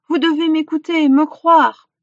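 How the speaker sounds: insistent plea, high and loud; imploring. A narrator's reading. Hunter begging villagers to believe him, imploring. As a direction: press them desperately to believe. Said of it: "implora Aélibu".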